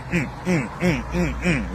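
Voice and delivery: short rhythmic "mm" grunts; imitated walking rhythm. Vlogger mimicking folks who just be walking, rhythmic grunts. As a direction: hum out each step of a walker.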